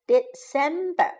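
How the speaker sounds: "December" broken into separate syllables; teacher splitting "December" up for learners. Shown as a demonstration. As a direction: sound out "December" with small gaps between syllables. Teacher models month syllable by syllable.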